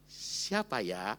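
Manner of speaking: low, slow and hesitant; a slow, wondering "Siapa ya?"; drawn-out coy question. Retold or imitated. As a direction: stretch it out, unsure of herself. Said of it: "Kalimatnya lebih lembut lagi".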